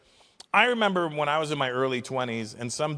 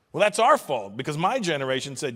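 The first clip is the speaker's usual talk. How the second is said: normal talking voice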